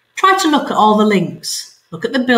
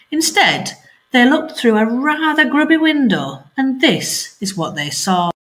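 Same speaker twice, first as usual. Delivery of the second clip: lively read-aloud storytelling; story narration. A narrator's reading. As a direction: tell the story to children at home. Teacher reading story aloud.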